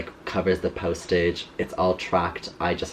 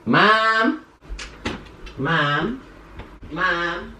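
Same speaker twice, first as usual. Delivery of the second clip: calling out; 8 semitones higher, much slower than usual. Real, not acted. Calling mother from upstairs.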